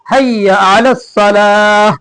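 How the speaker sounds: slow, drawn-out call to prayer; muezzin's call. Retold or imitated. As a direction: lightly intone it like a muezzin calling. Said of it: "मुअज्जिन पुकारता है". (मुअज्जिन की तरह हल्का सा खींचकर पुकारना)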